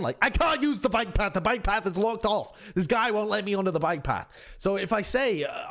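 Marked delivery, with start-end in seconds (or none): 0.2-4.3 raised-pitch exasperated mock yell; mock shouting. Lost cyclist to his phone, mock shouting. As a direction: act out shouting at the phone, without full volume. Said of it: "I'm just shouting at my phone".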